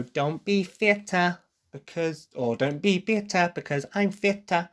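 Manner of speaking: effortful mock British accent, pitched high; forced British accent. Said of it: "trying to force the British accent there".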